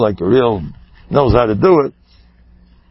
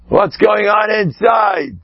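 slow and higher, almost calling out; slow, emphatic challenge, higher in pitch; raised, pressing question; 5 semitones higher, slower than usual. Shown as a demonstration. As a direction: press them hard on what's inside.

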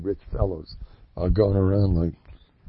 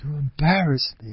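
hurt complaint; 3 semitones higher than usual. Retold or imitated. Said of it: "So the Mavazani".

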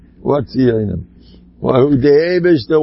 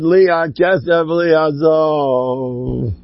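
last word stretched very long; drawn-out quotation; much slower than usual. Retold or imitated. Quoting Rabbi Aaron's saying about money, drawn out. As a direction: quote it slowly, lingering on the final word. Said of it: "Rabbi Aaron said".

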